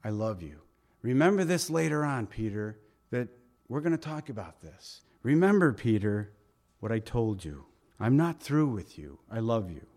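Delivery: Jesus speaking to Peter after his denial, tenderly; tender reassurance. Acted. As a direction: reassure him gently. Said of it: "I think it was".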